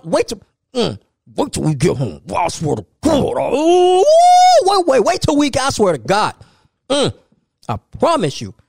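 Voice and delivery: put-on hissed threat at a misbehaving kid; seething parent warning under breath; whisper yelling.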